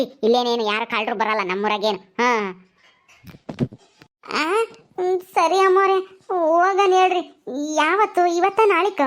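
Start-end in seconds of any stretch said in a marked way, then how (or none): 4.3-9.0 high, drawn-out servant voice; grudgingly agreeing servant Gulabi. Acted. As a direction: give in to the mistress with stretched words.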